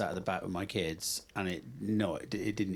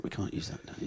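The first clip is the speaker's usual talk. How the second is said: whispered under the breath; 5 dB quieter than usual. Retold or imitated. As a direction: hush it like a secret warning. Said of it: "Whispering under his breath".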